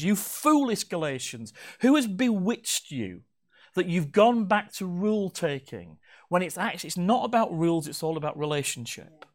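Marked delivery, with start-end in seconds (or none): 0.0-6.0 slow, a touch higher mock scolding; a mild imitation of Paul telling them off; lightly voiced rebuke. Paul laying into the Galatians, mild slow rebuke. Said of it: "he lays into them and says".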